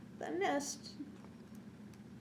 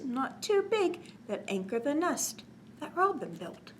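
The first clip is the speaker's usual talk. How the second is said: put-on reading to children; 2 semitones higher than usual. A narrator's reading. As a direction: bounce the rhyme for little listeners. Reads cumulative rhyme to children.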